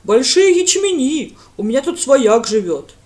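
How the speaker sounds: loud, slow, high-pitched rustic call; eager village lad. A narrator's reading. Lad runs up to Brent, eager and slow. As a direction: call out to the priest, drawn out.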